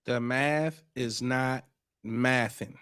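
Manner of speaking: slow, low and soft echo; musing echo. Real, not acted. Host echoing a clip's punchline, slowly and quietly. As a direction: repeat the catchphrase quietly, drawn out.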